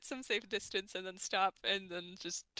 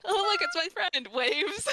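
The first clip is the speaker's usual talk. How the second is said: excited; 6 semitones higher, 5 dB louder than usual. Acted. Waving at friend excitedly.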